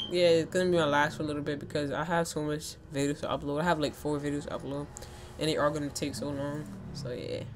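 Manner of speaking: talking around ice; ice in mouth. Real, not acted. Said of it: "I have ice in my mouth again".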